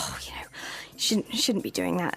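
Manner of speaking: soft, under-the-breath mock grumble; tutting disapproval. Queuer grumbling at someone who jumped in front, tutting softly. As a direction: imitate someone quietly tutting. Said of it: "you get a lot of tuts".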